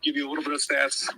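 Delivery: breathless sports talk; winded, talking between breaths. Real, not acted. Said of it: "Sorry for my out-of-breathness".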